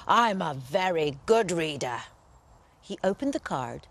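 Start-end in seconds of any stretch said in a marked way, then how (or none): 0.1-2.0 imperious lion. Acted. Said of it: "roared the lion imperiously".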